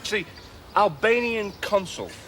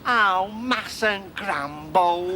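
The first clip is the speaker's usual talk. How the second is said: mustn't grumble; much slower than usual. Retold or imitated. Mock resigned British catchphrase.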